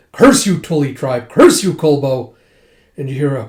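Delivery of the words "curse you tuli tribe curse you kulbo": loud acted curse; angry curse. Lord cursing the tribe attacking his gates, mock angry. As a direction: curse the enemy with mild mock fury.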